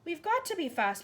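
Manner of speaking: put-on high urgent girl; urgent child. A narrator's reading. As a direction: press her to hurry. Matilda voiced.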